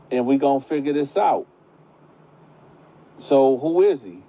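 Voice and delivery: put-on grandma telling the pregnant girl the family rules; grandma lecturing. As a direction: play the firm churchgoing grandma. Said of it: "So she tell her".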